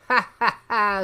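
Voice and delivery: loud, hammed-up villain cackle; villain's gloating laugh. Doctor Doom gloating over his plan, acted laugh. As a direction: laugh in gloating triumph, loudly.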